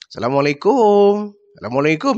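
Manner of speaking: a sing-song come-on greeting; flirty teasing greeting. Retold or imitated. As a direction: tease her with the greeting. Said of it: "cuma salam-salam menggoda".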